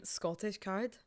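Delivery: slow Scottish "card"; Scottish accent. Shown as a demonstration. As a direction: show how "card" sounds in Scottish. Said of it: "the word card in a Scottish accent".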